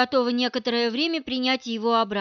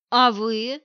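defensive counterattack; 4 dB louder than usual. Acted. Wife's rival strikes back, defensively attacking. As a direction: throw the question back, on the attack. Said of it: "решила обороняться, наступая я".

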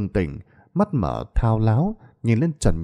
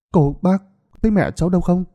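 much higher, loud call; 10 semitones higher, 3 dB louder than usual. Acted. Tươi calling to villagers about her mother-in-law, loud. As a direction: shout questions to passers-by.

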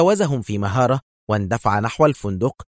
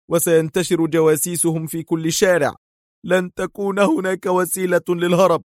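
voiced grim hero; 8 semitones higher than usual. A narrator's reading. Hero explains escape is impossible.

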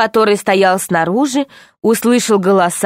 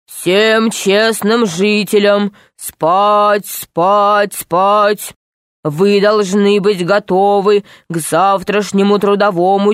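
slow, stern announcement from afar; strict voice; slower than usual. Acted. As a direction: order everyone to sleep, far off. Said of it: "строгий голос". (строгий голос издалека)

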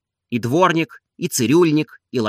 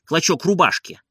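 plain reading voice

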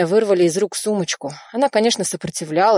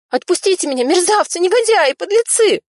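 rising, ever higher and louder furious cries; furious screaming; 13 semitones higher, 6 dB louder than usual. A narrator's reading. Nadya screaming insults at the killers holding her, furious. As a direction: hurl insults as you struggle. Woman fighting captors.

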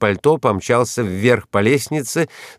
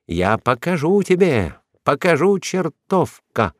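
enraged threat; 7 semitones higher than usual. A narrator's reading. Enraged woman attacking her rival.

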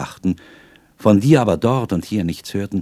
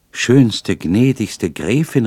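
louder, slowed, fervent address; exclaiming; 4 semitones higher, 7 dB louder, much slower than usual. A narrator's reading. Young man exclaims to the lovely countess, overwhelmed. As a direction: call her out in delighted wonder. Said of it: "rief ich aus".

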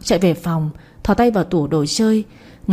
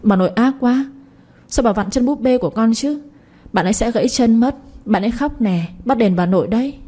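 put-on crying child; 3 semitones higher than usual. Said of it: "khóc ré lên".

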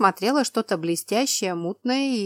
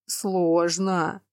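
rumbling. Acted. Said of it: "пророкотал он".

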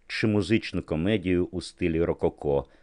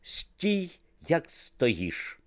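higher sharp command to freeze; photographer's order; 11 semitones higher, much slower than usual. A narrator's reading. Niki orders model to hold still, high quick command. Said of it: "крикнув Нікі".

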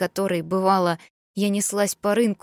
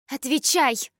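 shouted order; 7 semitones higher than usual. A narrator's reading. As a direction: yell the demand at him. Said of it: "выкрикнула Суён". (громкий выкрик)

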